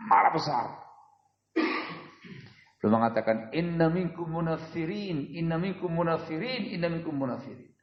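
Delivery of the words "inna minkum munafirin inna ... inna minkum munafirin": mild retold anger. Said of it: "Nadanya tinggi dan marah".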